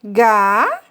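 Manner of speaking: "gatos" as two drawn-out syllables, long gap between; slow teacher's split of "gatos". Shown as a demonstration. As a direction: divide gatos aloud into ga, tos. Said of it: "nós dizemos na divisão silábica".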